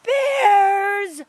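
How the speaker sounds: high, loud cry of alarm; medium-sized voice. A narrator's reading. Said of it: "in a medium-sized manaka".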